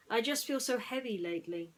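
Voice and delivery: Ham, sad. Acted. Ham telling Woody he feels heavy, mopey. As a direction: sigh it like a weary pig. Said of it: "Ham said".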